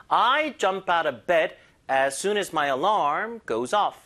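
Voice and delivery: slow, I jump, bed, soon, alarm, off pushed; five stresses. Shown as a demonstration. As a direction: beat out five stresses, slowly. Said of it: "강세 다섯 군데입니다".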